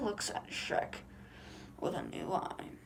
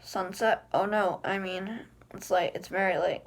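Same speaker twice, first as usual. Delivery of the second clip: alarmed panic; 6 dB louder than usual. Acted. Princess panics at the sunset.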